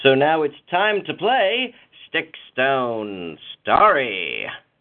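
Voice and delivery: put-on old-timey 1940s radio announcer voice. Show host introduces the weekly game segment, in an old-timey 1940s radio voice. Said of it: "in a needlessly old-timey 1940s radio voice".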